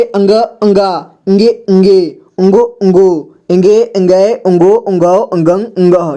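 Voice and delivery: nasal ng series, one syllable at a time; syllable drill. Shown as a demonstration. Teacher shows how अंग series may be read, measured recitation. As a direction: recite each ng syllable evenly and apart. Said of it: "इस तरह से आप पढ़ सकते हैं".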